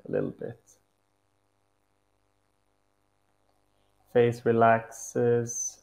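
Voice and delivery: calm meditation guide with long pauses; unhurried guided-meditation voice. Acted. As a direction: lead them gently into stillness, pausing between instructions.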